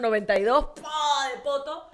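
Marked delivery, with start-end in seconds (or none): 0.8-1.3 drawn-out spoken splat; comic falling sound effect; imitated thud. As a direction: mimic a big body hitting the ground.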